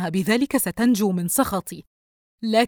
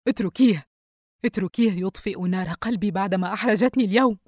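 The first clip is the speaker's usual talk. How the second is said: indifferent; 4 dB louder than usual. Acted. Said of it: "الأم دون اكتراث". (دون اكتراث)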